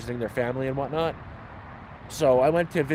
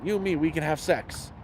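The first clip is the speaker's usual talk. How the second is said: lightly imitated Indian accent; a hint of an Indian accent, quoting someone; retold come-on in a mild Indian accent; 3 dB quieter than usual. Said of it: "he's got a thick I-, Indian accent".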